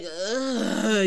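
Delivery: long drawn-out "ugh"; disgusted groan. Retold or imitated. Reacting to partner's dusty ex, disgusted groan. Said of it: "you be like".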